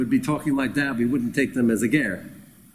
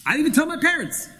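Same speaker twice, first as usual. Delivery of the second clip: Shimshon protesting; faster than usual. Retold or imitated. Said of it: "He said".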